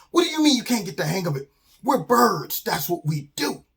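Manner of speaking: high, quick disbelieving retort; exasperated father. Acted. Father to son who can't get the hang of flying, exasperated. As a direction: fire it back in disbelief.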